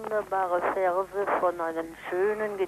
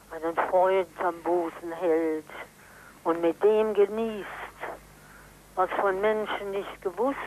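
poem recital; 3 dB louder than usual. Real, not acted. Reciting Goethe poem on phone.

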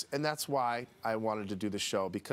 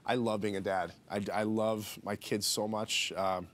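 real emotion creeping in, slightly choked up; trying to hold it together while confessing love; getting emotional. Real, not acted. Dad talking about loving his kid, getting emotional. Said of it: "I'm getting emotional talking about it".

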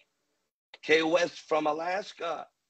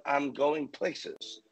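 spelled out slowly for the chat to type; slowly dictating a comment to the viewers; slow dictation; much slower than usual. Shown as a demonstration. Preacher dictates a comment for viewers, slow and deliberate. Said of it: "Someone comment".

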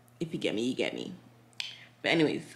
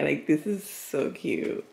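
moved to tears; 3 dB quieter, slower than usual. Real, not acted. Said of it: "I'm actually gonna cry".

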